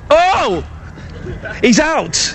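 high shout of triumph; real joy, voice leaping up; triumphant. Real, not acted. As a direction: celebrate taking the wicket. Bowls the captain out.

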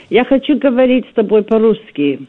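Russian spoken with an English accent; anglicised Russian accent. Shown as a demonstration. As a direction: speak Russian like an English person. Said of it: "that was done in an English accent".

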